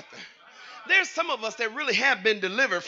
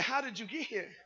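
very soft quoted question; hushed quote; 14 dB quieter than usual. Acted. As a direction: drop right down to deliver the quote. Quotes the song's words quietly.

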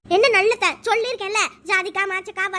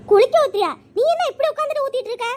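critical scolding; 4 semitones higher, 5 dB louder, faster than usual. Acted. Mother-in-law criticises how baby is bathed.

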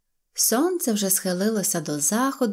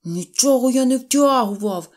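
loud, higher-pitched denial; defensive; 4 semitones higher, 6 dB louder than usual. Acted. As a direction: protest your innocence loudly. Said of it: "виправдовувався Пончик". (голосно виправдовуючись)

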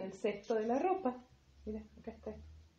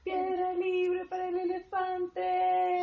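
calling out; 6 semitones higher, 3 dB louder, much slower than usual. Acted. Calling out found player in game.

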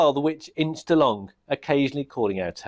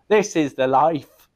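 slow, louder goblin contentment; goblin king; 3 semitones higher, 4 dB louder than usual. Acted. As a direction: savour it smugly.

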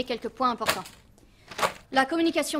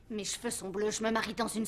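much softer, resigned; deflated; 3 semitones lower, 7 dB quieter than usual. Acted. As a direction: let it drop in defeat. Repeats it deflated.

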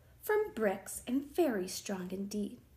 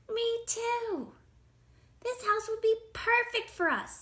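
high storybook pig voice; scheming little pig; 13 semitones higher, 3 dB louder than usual. A narrator's reading. Pigs eye the wolf's house, high-voiced.

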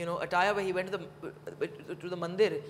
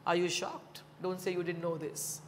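deliberate, emphatic formal reading; reading a letter aloud; 3 semitones lower than usual. Acted. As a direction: read out a father's written advice with weight. Reads father's written words aloud.

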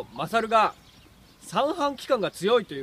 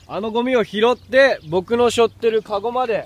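loud; 7 dB louder than usual. Real, not acted. Explaining the challenge loudly outdoors.

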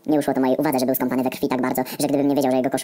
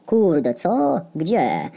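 startled Heniek; 5 semitones higher, much slower than usual. Acted. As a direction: jump in alarm as the big guy. Heniek startled about blood. (zaskoczony, wysoki okrzyk osiłka)

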